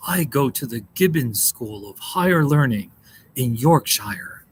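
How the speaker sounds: lightly put-on British accent with a drawn-out finish; mock British accent. Streamer teasing a viewer's British name, mock British accent. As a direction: badly fake a British accent. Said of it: "That's how the British, the British sound".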